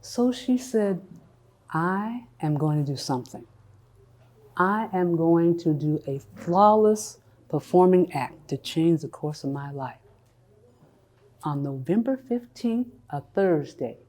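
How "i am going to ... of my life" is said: low, softened vow to herself; quiet resolve. Acted. Cathy deciding to change her life, quiet resolve. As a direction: lower the voice into a private, deliberate decision.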